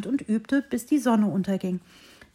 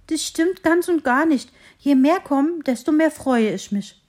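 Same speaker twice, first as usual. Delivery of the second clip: higher, louder, relieved and happy call; relieved exclamation; 6 semitones higher, 5 dB louder than usual. Acted. Little tree relieved the hare still likes it, calling out happily. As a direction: burst out with relief. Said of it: "rief das Bäumchen erleichtert".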